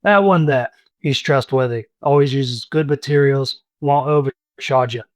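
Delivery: lightly voiced old barkeep; a hint of a chatty innkeeper; friendly old barkeep. Dernan recommends blacksmith.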